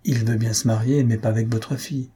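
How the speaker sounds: even, understated delivery of a reply; matter-of-fact suggested wording. Acted. Someone rehearsing the refusal for the parents, matter-of-fact. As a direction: offer it plainly as a reasonable phrasing. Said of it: "Il y a toujours une façon de dire les choses".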